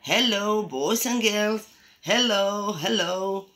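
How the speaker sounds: lightly voiced pet puppet; pet greeting. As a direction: greet the children as the pet, words drawn out. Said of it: "os saludan my pet".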